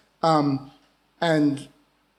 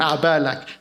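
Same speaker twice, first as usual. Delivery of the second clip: put-on Arabic phrase in a broad Aussie accent; 3 dB louder than usual. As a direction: say it the Australian way. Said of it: "in my weird Aussie accent".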